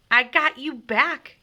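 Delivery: loud, slow, high shout; yelled. A narrator's reading. James firing back, yelling loud. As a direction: yell it triumphantly. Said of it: "yelled James".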